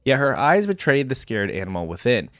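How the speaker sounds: measured dramatic lore reading; story narration. A narrator's reading. Reader telling viewers of Vayne's training, story narration. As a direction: read it out like a fantasy tale. Reads champion lore aloud.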